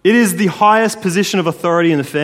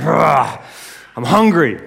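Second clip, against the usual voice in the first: hammed-up hungry groan; Esau; slower than usual. Esau back empty-handed from the hunt, mock hungry roar. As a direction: lightly play a famished wild hunter. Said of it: "he is exhausted and he is hungry".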